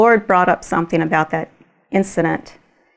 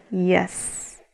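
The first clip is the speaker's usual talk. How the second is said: softer, calm yes; 7 dB quieter than usual. Retold or imitated. The Lord answering the woman, softly.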